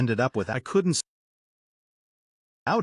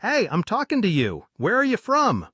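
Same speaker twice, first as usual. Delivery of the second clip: put-on drunken shout; 6 semitones higher than usual. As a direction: insist she answer. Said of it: "he'd asked".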